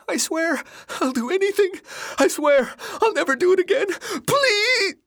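frantic, very high begging; shrill plea rising to a scream; shrill cry. A narrator's reading. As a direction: promise anything to be spared. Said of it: "His shrill cry was cut off".

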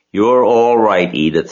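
slow, loud and soothing; calm a flustered friend down; reassuring. A narrator's reading. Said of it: "said Missus Arable".

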